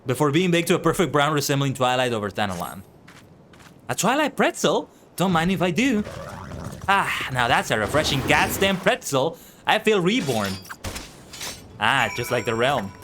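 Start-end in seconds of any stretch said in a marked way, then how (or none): 3.9-10.5 lightly voiced, perking up at the gift; a tired guard brightening at a snack; pleased NPC. Overheated guard handed a pretzel, pleased.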